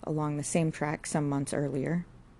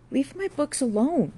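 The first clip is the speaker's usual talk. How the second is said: higher, sharp angry demand; angry protest; 10 semitones higher, 4 dB louder than usual. A narrator's reading. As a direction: stop her, angrily. Jude angry at his books thrown.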